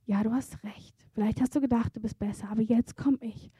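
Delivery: sanft und etwas tiefer zugesprochen, mit einem Hauch Zärtlichkeit; liebevoll. Retold or imitated. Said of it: "der dir liebevoll sagt". (liebevoll, behutsam)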